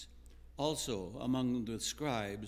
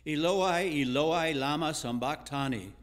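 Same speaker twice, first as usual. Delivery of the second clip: raised, higher cry of anguished appeal, read aloud; loud cry; 3 semitones higher, 6 dB louder than usual. A narrator's reading. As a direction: cry it out louder and higher, easing on the last words. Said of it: "cried out in a loud voice".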